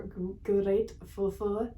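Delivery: grateful stretched slowly in a half-Russian-sounding accent; accidental odd accent. Real, not acted. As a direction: slip into a strange foreign lilt on grateful. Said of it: "what the fuck accent that kinda was".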